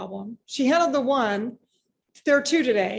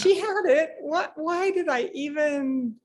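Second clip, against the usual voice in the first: higher, fast, mock self-scolding; exasperated self-reproach; 4 semitones higher, slower than usual. Owner scolding herself after the blow-up, mock exasperated. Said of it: "I'm like".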